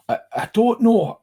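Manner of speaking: high, hesitant captive voice; flustered captive. Acted. Captive asked how she got involved, flustered. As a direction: stammer it out, pitched high.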